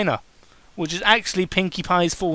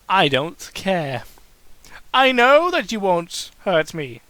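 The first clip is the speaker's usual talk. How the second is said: defiant; 3 semitones higher, 6 dB louder, slower than usual. Acted. Defiant reply in story.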